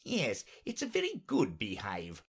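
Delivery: mildly disgruntled knight; a touch of grumbling; discontented. Acted. Knight answers Alice about his beehive, mildly discontented. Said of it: "said in a discontented tone".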